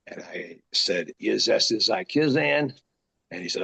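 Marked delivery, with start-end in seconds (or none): 1.2-2.7 mock Carney gibberish. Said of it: "asked me if I could speak Carney".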